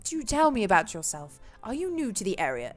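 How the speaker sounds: lightly put-on British accent; polite British gentleman's small talk; a hint of British formality. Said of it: "if anyone is British".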